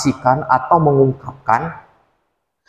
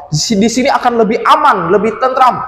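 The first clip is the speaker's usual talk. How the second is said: father's voice, slightly raised; 7 semitones higher than usual. Acted. Father in cave.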